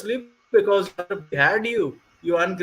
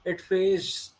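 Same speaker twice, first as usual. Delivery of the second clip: put-on Indian accent. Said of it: "I should go with an accent".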